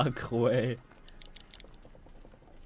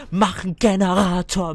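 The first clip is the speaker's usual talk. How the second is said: frustrated yelling; 5 dB louder than usual. Real, not acted. Yelling teammates to do generator.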